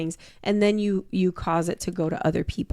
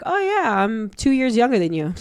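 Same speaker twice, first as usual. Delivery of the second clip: high, sing-song mock brag; mock bragging voice; 4 semitones higher, 3 dB louder than usual. Imitating a smug peer at a convention. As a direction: lightly mimic a smug convention-goer.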